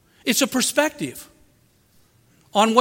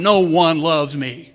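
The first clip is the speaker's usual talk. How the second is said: self-pity; 4 semitones lower, 4 dB louder than usual. Retold or imitated. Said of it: "Just solidify it in your mind".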